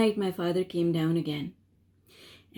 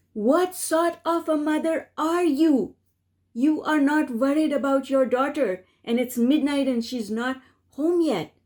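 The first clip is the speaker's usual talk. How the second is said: high, raised reproach from a worried father; a hint of the father's angry scolding; 5 semitones higher than usual. Father scolds her at midnight.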